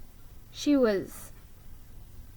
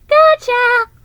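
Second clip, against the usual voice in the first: triumphant gotcha; 14 dB louder than usual. Acted. Ricky hits Molly mid-speech.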